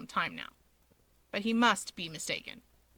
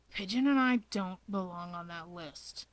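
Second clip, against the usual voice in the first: unamused Dabi; 3 semitones lower, 3 dB quieter than usual. Acted.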